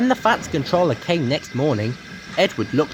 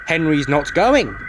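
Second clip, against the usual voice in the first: rude. Acted. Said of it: "said Gordon rudely".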